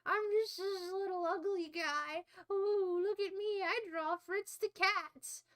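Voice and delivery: mock a little cartoonist showing off; Robert Crumb. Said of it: "where he's like".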